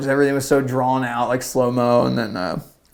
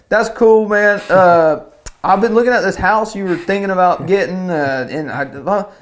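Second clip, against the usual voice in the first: higher, louder dad voice; oblivious dad imitation; 7 semitones higher, 6 dB louder than usual. Dad to son changing the subject to a house, oblivious. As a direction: imitate a dad cheerfully missing the point. Voicing distracted dad on phone.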